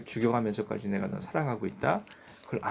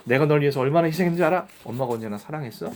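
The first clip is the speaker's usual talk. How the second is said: bitter complaint; 2 semitones higher, 5 dB louder, faster than usual. Retold or imitated. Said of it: "자식들 다 키워놔서".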